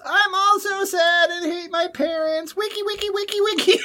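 sing-song it like a weird stranger; creepy alley singer. Pretend. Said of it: "he goes".

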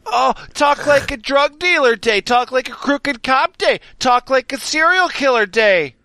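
mock outraged rant. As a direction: rant like an offended commenter. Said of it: "my name is also the Green Wagon".

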